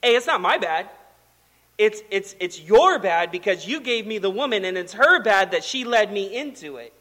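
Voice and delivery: mock-defensive Adam passing the blame; deflecting blame. Adam answering God after the first sin, mock-defensive. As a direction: plead innocence, leaning on each accusation. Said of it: "deflected responsibility onto two different parties".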